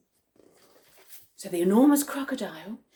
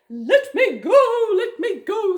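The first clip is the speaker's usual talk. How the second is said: higher, louder, slow desperate wail; panicked pleading; 9 semitones higher, 6 dB louder, slower than usual. A narrator's reading. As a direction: beg to be put down. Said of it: "said the enormous crocodile".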